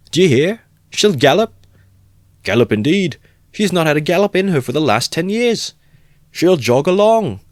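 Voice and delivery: very high, loud taunting; mocking crowd voices. Onlookers taunting the drunk owner, loud mockery. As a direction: ridicule the boast.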